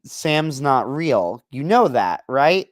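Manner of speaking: slow, deadpan disbelief; drawn-out, dry disbelief; incredulous retort. Retold or imitated. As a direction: spell it out slowly like it's obvious. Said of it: "And I'm like".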